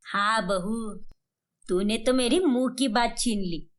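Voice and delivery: a hint of an elder proposing a plan; keen mother-in-law. Mother-in-law proposes a talk-show game to daughter-in-law, lightly voiced, keen.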